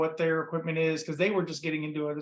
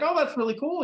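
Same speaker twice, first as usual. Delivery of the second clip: mock delight; 10 semitones higher than usual. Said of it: "I was like".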